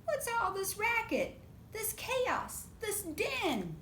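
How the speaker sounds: a hint of a scolding mother; stern mama. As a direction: demand an answer like a cross mom. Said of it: "so noisy that Mama runs in".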